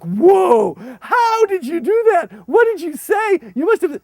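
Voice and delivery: high loud astonished; amazed questioning. Retold or imitated. Leader to translator, high loud amazement. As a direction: demand in disbelief. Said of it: "I'm like".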